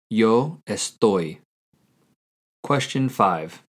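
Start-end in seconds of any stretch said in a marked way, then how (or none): 0.1-1.4 slow, clear repeat of Yo estoy; teacher repeating the answer slowly; slow model answer. Shown as a demonstration. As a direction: say it again slowly so they can copy. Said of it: "How do you say "I am" in Spanish".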